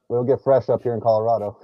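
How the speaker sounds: mic buried inside clothing; muffled mic. Real, not acted. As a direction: voice muffled under a sweater. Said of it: "'Cause it sounds like it's muffled".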